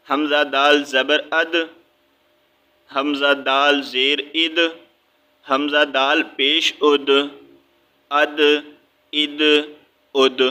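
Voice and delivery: اد with the final د pressed and bounced; qalqala bounce. Shown as a demonstration. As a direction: press the د of اد so it echoes. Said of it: "یہاں پہ بھی ہم نے قلقلہ کیا ہے". (اد میں د کو دبا کر قلقلہ کے ساتھ)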